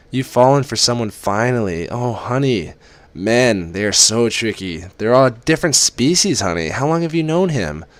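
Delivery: a fond mother fussing over her daughter; a hint of a doting mother on the phone; mother's voice.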